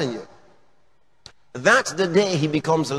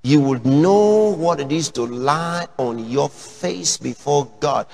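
ordinary talk

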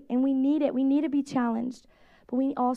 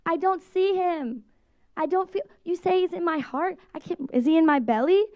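lightly voiced child; 5 semitones higher than usual.

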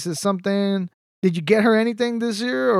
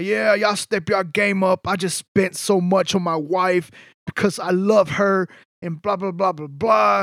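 bragging guy voice; slower than usual. Retold or imitated. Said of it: "wanna be like the big bad wolf".

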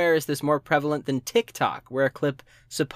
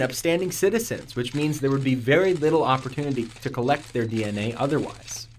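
police spokesman voice. Acted.

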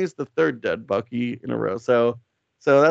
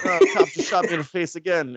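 higher-pitched mock wail of complaint; hammed-up victim, put upon once more; mock dismay; 6 semitones higher than usual. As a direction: play the hapless victim, pitched up. Retold victim shot a second time.

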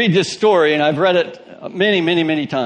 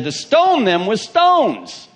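slow, higher mock mob retort; angry crowd; 8 semitones higher, 3 dB louder, much slower than usual. The congregation answering Caleb and Joshua, slow mock mob threat. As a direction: drag out the crowd's threat slowly.

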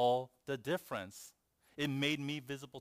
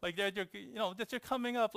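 retold annoyance; 8 semitones higher than usual. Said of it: "I got kinda mad".

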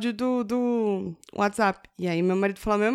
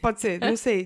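ordinary talk

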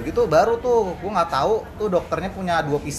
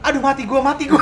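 put-on higher, louder wail of a hurting kid; whining child; 6 semitones higher, 5 dB louder than usual.

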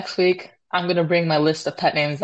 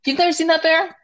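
high shocked question; incredulous; 10 semitones higher, faster than usual. Real, not acted. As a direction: sound stunned they missed it.

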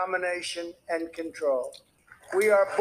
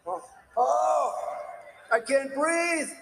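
hammed-up panic, higher and slowed in places; mocking a choking rival; 6 semitones higher, much slower than usual. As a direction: whine like a debater who froze on stage. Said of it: "He's another one who's going".

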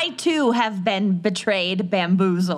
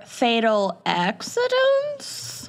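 dramatic announcement; slower than usual. Acted. Dramatic reveal of episode title.

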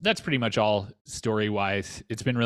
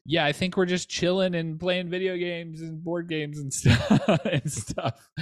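laughing; 10 semitones higher, 3 dB louder, slower than usual. Retold or imitated. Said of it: "So I'm like".

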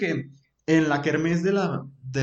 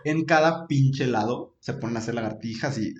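half crying with laughter; laughing. Real, not acted. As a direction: laugh through the words. Ríe llorando. (riendo a carcajadas)

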